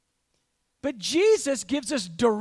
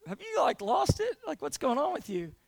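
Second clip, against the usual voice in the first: baffled friend; 6 dB quieter than usual. Acted.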